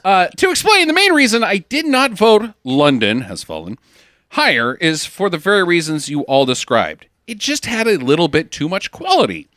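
put-on Floridian accent. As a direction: read the letter in a hammy Floridian accent. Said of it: "I should do a Floridian accent".

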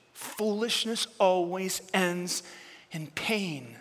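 soft, low and slow, almost confiding; hushed repeat. Acted. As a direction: let the warning sink in quietly. Preacher repeats warning softly.

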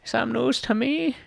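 high, slow mock Greek accent. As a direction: put on a silly Greek accent. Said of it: "Greek accent is perfect".

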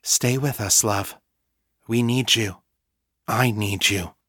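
steady, gently pressing appeal; measured plea, short phrases with pauses; calm but insistent. A narrator's reading. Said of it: "her voice calm but insistent".

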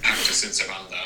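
Latin with a Swedish accent. Real, not acted. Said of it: "the way you pronounce Latin phrases, like, reveals your nationality".

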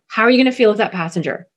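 ordinary talk, nothing marked

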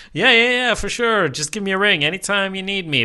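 put-on high, loud old prospector voice; eager codger, fast and high. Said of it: "He's laying it on thick".

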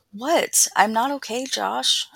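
high, loud near-yell that bursts out; almost yelling. Acted. Eden finally snapping at Josh that she is not okay, almost yelling. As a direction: blurt it out, close to shouting. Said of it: "almost yelling".

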